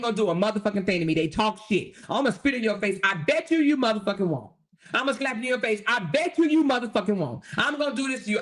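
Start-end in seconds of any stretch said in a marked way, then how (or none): 3.0-4.5 mocking taunt. 5.9-7.4 lightly voiced higher taunt, daring them; mocking taunt.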